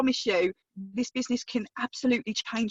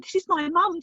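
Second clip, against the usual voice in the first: put-on proud child; 8 semitones higher, 3 dB louder than usual. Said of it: "he was so excited".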